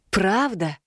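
earnest, reassuring confirmation; firm and sincere, to comfort; sincere assurance. A narrator's reading. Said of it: "Как можно искреннее заверила я". (искренне и уверенно)

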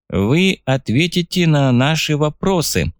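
slow, droning machine voice; old speech synthesizer. Acted. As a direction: drone it out like an old computer. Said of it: "прогудел синтезированный голос".

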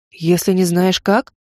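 slow disbelieving echo rising on как; echoing question. A narrator's reading. Mage echoes the heroine's rule, slow and incredulous. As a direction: repeat her words back, puzzled. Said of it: "Ты что, моим эхом заделался?".

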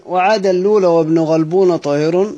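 verse recital. Shown as a demonstration. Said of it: "قال".

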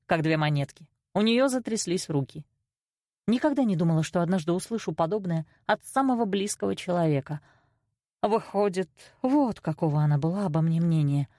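plain reading voice

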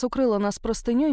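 plain reading voice

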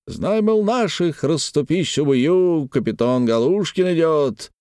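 put-on high boastful drunken cry; high blustering voice of a drunk merchant; triumphant swagger. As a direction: strut with every word. Galushkin triumphant.

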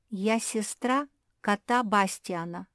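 ordinary delivery

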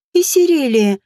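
a mild, choked-back cry of alarm; half-swallowed exclamation in fright; understated startled gasp; stifled gasp. Acted. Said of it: "сдавленно охнула Анте".

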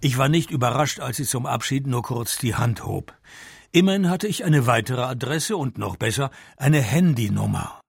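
dry noir narration, steady and firm; story narration. A narrator's reading. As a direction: narrate it like a dry private eye. Detective narrates the scene.

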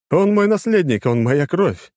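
high, loud furious insistence; angry insistence. A narrator's reading. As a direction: hammer each word home. (гневно, на повышенных тонах)

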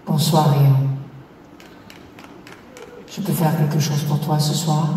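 put-on low, seductive French accent; sultry mock French accent. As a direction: purr it in French. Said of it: "What would you say to me".

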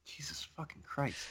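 exasperated whisper under breath; whispered curse. Real, not acted. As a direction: hiss it out in disbelief.

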